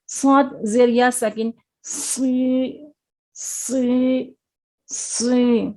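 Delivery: صاد syllables سو and سی said full and heavy in the mouth; slow recitation drill of heavy sad; heavy letter drill. Shown as a demonstration. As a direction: model the thick sad sound patiently. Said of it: "یہ موٹا پڑھیں گے".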